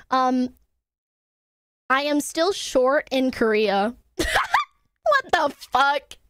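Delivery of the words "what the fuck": slow "What the fuck", held back; stunned disbelief. Real, not acted. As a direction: drag out "What the fuck" in usual pitch. Disbelief at being short in Korea.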